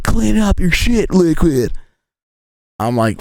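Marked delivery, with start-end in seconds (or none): 0.0-1.7 much higher, slow mock scolding mother; mom ordering. Mom orders son to clean the mess, high mock scold. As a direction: bark the order like an exasperated mom, hammed up. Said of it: "She's like".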